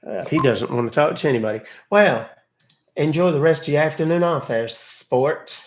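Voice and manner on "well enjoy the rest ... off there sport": sarcastic send-off. Acted. Mock send-off to the scammer who hung up.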